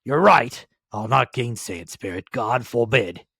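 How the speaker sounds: a hint of feeling breaking through; old Scrooge moved. Scrooge answers the ghost, earnest old man.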